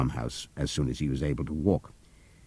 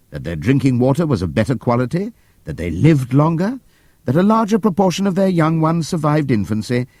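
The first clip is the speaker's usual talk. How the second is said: shrill rapid voice; 6 semitones higher than usual. A narrator's reading. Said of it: "in a shrill, rapid voice".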